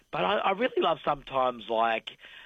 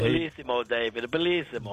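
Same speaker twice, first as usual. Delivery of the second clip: put-on Italian accent. Mock Italian exclamation.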